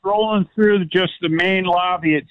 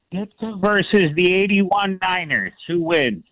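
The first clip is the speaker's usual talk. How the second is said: put-on Chicago accent. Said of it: "With my best Chicago accent from S N L".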